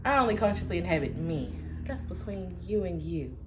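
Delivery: lightly voiced hippie calm; a touch of mellow hippie; easygoing hippie, then rushing; hippy dippy. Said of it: "my now hippy dippy comes in".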